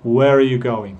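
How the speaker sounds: "Where are" linked as "where-uh"; reduced "are". Shown as a demonstration. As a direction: model casual speech with "are" shrunk to uh. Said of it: "deberían intentar hablar así".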